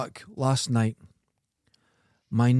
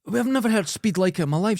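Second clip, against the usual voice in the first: ordinary delivery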